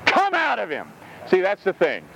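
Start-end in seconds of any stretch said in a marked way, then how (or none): 0.0-0.9 firm order, a little higher; stern, falling command. Acted. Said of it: "said Jesus sternly".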